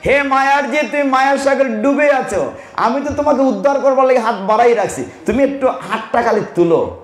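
high, gently reassuring divine voice; God speaking. Retold or imitated. The Lord calling to a soul lost in maya, high and gentle. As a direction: call out lovingly as the Lord. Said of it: "ভগবান বলছেন".

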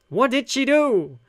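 alarmed and slow; shocked question. Acted. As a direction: ask it in disbelief. Character asking in shock.

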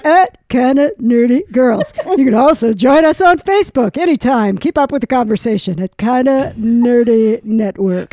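playful impression of a friend doing the podcast outro; impersonating co-host. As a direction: mimic your friend reading the sign-off, lightly. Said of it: "This is my impersonation of you".

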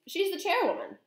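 high-pitched protest; astonished cry. A narrator's reading. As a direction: insist in shocked disbelief. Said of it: "cried Mister Jenkins".

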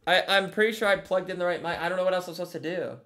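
metallic, boxy mic sound; tin can voice. Real, not acted. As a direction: talk through a tinny mic. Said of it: "it still sounds like you're in a tin can".

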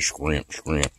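"scrimp" with a k after the opening sound; mimicking others' pronunciation. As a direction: imitate their "scrimp", said twice, quietly. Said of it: "I know how y'all be saying it".

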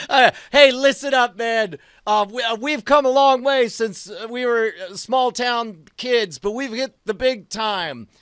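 rally the men before the game; halting but hearty locker-room pep talk; rousing speech. Acted. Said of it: "in this rousing speech".

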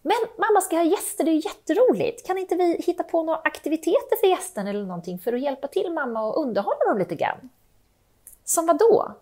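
put-on a kid pitching an idea to help mom; lively child making plans; eager kid. Child proposing activities for guests.

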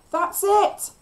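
high, loud cheer; loud, high shout of encouragement; encouraging yell. A narrator's reading. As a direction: yell to spur someone on. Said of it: "I yelled in encouragement".

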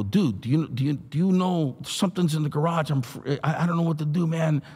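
mildly frantic, tripping over the first words; retold panic. Scared man begs at his friend's door, retold panic.

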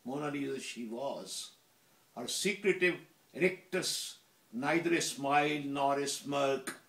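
measured, emphatic poetry reading; poem recitation. Acted. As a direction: recite it in deliberate, separated phrases. Reads own poem aloud.

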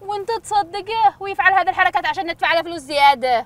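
high-pitched, heated protest; indignant accusation. Acted. Passenger accuses driver of a trick.

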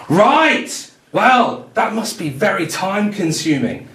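very high, loud, slow sing-song talking-down voice; high, loud singsong condescension; patronising photographer. Retold or imitated. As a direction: talk to her like a small child, sweetly and slowly.

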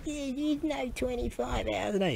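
high heckling echo of his own line; mocking echo. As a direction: parrot himself like a heckler. Mocking echo, then "shut up.

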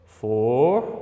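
"Fortuna" slowly split, for... tu... na; syllable by syllable. Shown as a demonstration. Teacher repeating the three syllables, syllable by syllable. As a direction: leave long gaps inside "Fortuna": for, tu, na. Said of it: "Três sílabas".

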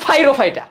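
ফাইরোফাইটা as "fai-ro-fai-ta"; altered pronunciation. Shown as a demonstration. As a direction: say ফাইরোফাইটা with F for the first P. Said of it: "তাহলে পাইরোফাইটার উচ্চারণ করলাম".

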